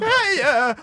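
Adam Sandler impression. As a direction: play a silly Adam Sandler caller. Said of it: "Adam, welcome to Young Guns".

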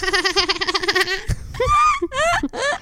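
high shrieking cackle; kookaburra laugh. Real, not acted. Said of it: "sound like a kookaburra".

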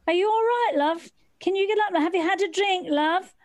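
a hint of a kindly policeman checking on her; police officer asking. Two police officers asking the fallen woman, mildly mock-concerned. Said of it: "I heard these two voices going".

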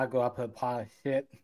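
tongue held, words garbled; holding tongue with fingers. Shown as a demonstration. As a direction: say it while pinching your tongue. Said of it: "hold your tongue and say".

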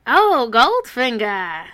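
slow, loud radio announcer; booming vintage radio host; old-timey radio voice. Shown as a demonstration. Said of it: "When you made, when you said the Goldfinger thing".

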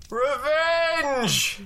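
dramatic reveal. Acted. Dramatic reveal in scary story.

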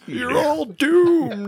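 high, very slow doom-laden warning; Crazy Ralph. Retold or imitated. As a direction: drag out a prophet-of-doom warning. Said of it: "Crazy Ralph".

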